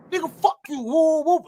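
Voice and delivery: high, loud retold snap; snapping. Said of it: "I snap".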